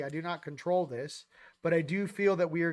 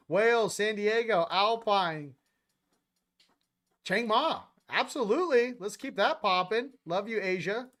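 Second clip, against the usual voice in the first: higher and louder, hyped calling out of places; excited shoutouts; 4 semitones higher, 5 dB louder than usual. Real, not acted. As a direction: hype the chat like a DJ on the mic. Excited livestream shoutouts to viewers.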